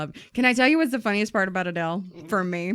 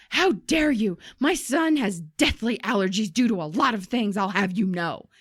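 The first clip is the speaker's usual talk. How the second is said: mildly raised mock outrage; retold indignant screaming. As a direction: play an offended customer without really screaming. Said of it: "the woman starts screaming".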